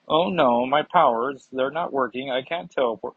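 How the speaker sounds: badly faked Russian accent; hammed-up, unconvincing Russian accent. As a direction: attempt a Russian accent and miss. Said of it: "that was a horrible Russian accent".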